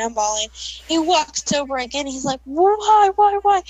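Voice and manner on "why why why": demanding. Retold or imitated. Drunk brother demanding.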